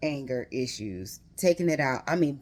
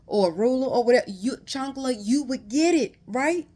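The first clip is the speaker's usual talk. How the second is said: higher, louder, fast disbelief; incredulous rant; 6 semitones higher, 4 dB louder than usual. Real, not acted. Reader ranting to viewers about strict family discipline, incredulous. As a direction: rattle it off in amazed disbelief.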